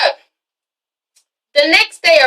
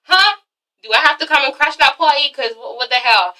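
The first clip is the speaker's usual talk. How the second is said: much higher, incredulous mock outrage; shocked outrage; 4 semitones higher than usual. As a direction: squeak it out like a stunned fiancé. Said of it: "And he's like".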